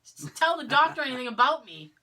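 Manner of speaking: retold protest with punched words; insistent protest. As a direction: act out an urgent telling-off. Retells begging partner not to tell.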